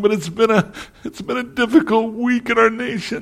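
soft, tearful speech with words coming through crying. Speaking to the morning audience after a difficult week, speaking while crying. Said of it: "I'm sorry I'm crying this morning".

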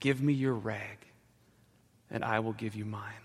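spoken in a gentle manner. The rag man speaks to the child, gently. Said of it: "he said gently".

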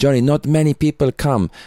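put-on Italian accent. Retelling what the promoter said to the speaker early on, Italian accent. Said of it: "his Italian accent".

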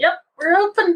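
very sarcastic, high-pitched. Speaker retells answering a man who asked if they were open: retelling own sarcastic reply. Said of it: "real sarcastic light".

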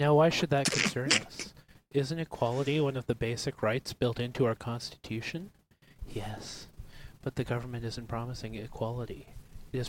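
gentle, soft, hushed close-mic ASMR voice. Doing the next part of the talk in an ASMR voice. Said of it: "I'll do the next part in an ASMR voice".

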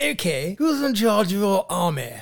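put-on English accent. Describing an enemy interrogation, the speaker voices the english questioner in an english accent. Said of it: "you got both English and Scottish accents quite good there".

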